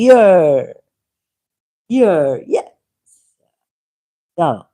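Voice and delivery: emphatic, measured read-out of a prepared text; reading aloud. Acted. Laying out a debate argument for listeners, emphatic reading.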